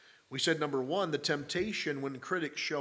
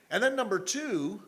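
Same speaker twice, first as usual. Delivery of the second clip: ordinary talk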